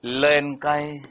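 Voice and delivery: drawn-out term, evenly held; measured, lingering pronunciation; slowed-down speech. Shown as a demonstration. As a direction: stretch out the syllables a little. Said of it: "slow हो जाती है".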